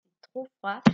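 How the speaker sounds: «C'est trop froid» with a lift on trop; exclamation. Shown as a demonstration. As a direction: exclaim it to the class. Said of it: "Je dis". («C'est trop froid» avec un léger élan sur trop)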